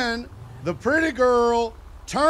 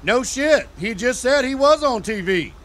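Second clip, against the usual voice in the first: sarcastic retort; 2 semitones higher, 3 dB louder than usual. Retold or imitated. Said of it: "And I said".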